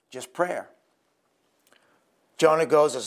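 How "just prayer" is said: hushed repeat. Acted. Sermon point, repeated softly.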